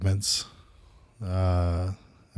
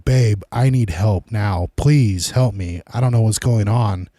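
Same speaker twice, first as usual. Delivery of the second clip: imitating desperate cries to his wife; retold screaming plea; 2 semitones higher, 5 dB louder than usual. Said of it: "I'm screaming for my wife".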